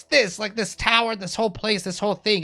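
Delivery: high, loud and indignant, easing as it goes; exasperated villain outburst. Acted. Cornered wizard protesting "all of this" to his attackers, exasperated.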